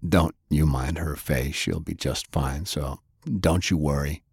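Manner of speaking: calm her down, hiding the truth; falsely reassuring. Acted. Lance lying to comfort Faye.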